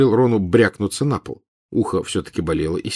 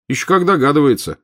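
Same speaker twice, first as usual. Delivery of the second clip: baffled; 7 semitones higher, 4 dB louder than usual. Acted. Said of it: "окончательно сбитый с толку".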